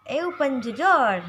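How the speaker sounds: loud, brusque order; forceful demonstration of a curt command; rough command. Shown as a demonstration. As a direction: order it roughly, pushing the volume. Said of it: "lebih kasar seperti itu".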